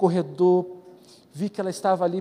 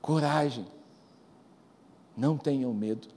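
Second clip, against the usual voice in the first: much softer, lower, gentle; hushed reassurance; 5 semitones lower, 6 dB quieter than usual. Acted. Preacher softly reassures the frightened listener, hushed and tender. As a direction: breathe it softly like a comfort. Soft repeat after loud.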